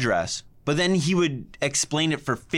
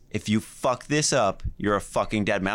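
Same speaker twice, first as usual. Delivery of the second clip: stern dad warning; 6 semitones lower than usual. Retold or imitated. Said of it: "He goes".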